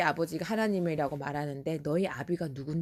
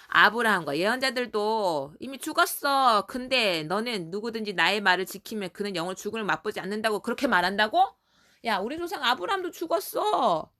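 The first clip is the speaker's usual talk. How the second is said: mock indignant, raised questioning; acted defiant challenge; 3 semitones higher than usual. Jews disputing Jesus' promise of eternal life, acted defiant voice. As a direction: argue back in hammed-up disbelief. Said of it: "막 대들은 거야".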